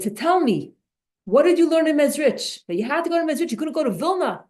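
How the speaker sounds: a father scolding his son, fairly loud; father angrily questions son back from Mezrich; angry father. Retold or imitated. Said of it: "his father was so angry".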